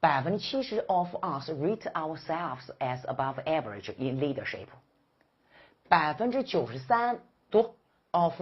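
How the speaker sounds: slow, measured classroom reading; read-along. Shown as a demonstration. Teacher leading students reading together, slow and measured. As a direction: draw out each phrase so a class can follow. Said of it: "一起读，谁要不读是个小猪啊。".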